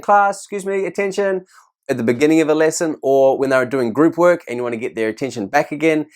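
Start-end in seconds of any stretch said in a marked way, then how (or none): 0.0-1.5 mock tired teacher. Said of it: "standing at the class and saying".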